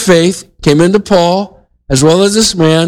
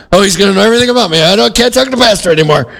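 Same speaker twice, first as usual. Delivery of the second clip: mock alarm; 3 semitones higher, much faster than usual. Churchgoers fretting about the pastor, imitated mild panic. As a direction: rattle off their worry in mock panic. Mimics worried church members.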